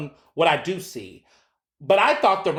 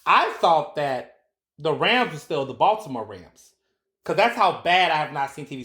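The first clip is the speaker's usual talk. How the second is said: usual speaking voice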